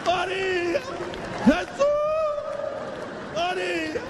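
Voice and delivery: high imitation of terrified cries; mock terrified screams. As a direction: yelp each name as the coaster plunges. Mother screaming on the drop.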